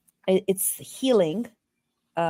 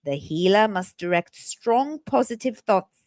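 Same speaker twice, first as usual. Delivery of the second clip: put-on British accent. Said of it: "I read in a British accent".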